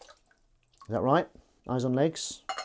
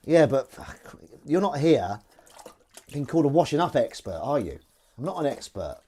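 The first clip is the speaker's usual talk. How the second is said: louder, higher argumentative guest; mock protest; 4 semitones higher, 6 dB louder than usual. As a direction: push back at the interviewer, raised voice. Acted interview, arguing with presenter.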